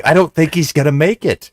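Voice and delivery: high-pitched, hammed-up worry; mock distress. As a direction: act out hopeless concern over a patient. Retold CPR on headless body.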